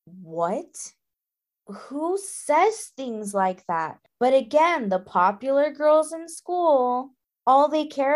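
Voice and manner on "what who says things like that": disbelieving. Retold or imitated. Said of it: "I said out loud to myself".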